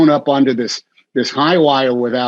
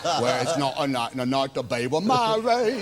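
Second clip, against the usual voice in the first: put-on English accent; 6 dB quieter than usual. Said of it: "That's your best accent".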